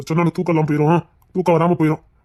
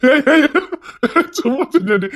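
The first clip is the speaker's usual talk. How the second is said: higher, louder sudden call; 9 semitones higher, 4 dB louder than usual. Real, not acted. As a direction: stop her, calling out. Husband calls her back. (திடீரென்று உரக்க அழைப்பு)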